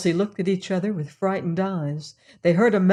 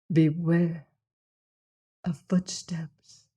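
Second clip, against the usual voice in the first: spooky warning. Acted. Spooky sign-off of mystery podcast.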